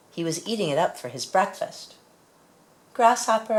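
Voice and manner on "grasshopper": calling out. Acted. Child calls to animal.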